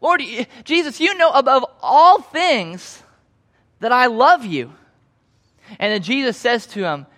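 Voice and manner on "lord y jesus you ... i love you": frustrated plea. Retold or imitated. Peter answering Jesus a third time, frustrated and pleading. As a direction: push it out with rising frustration. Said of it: "Peter actually does get frustrated".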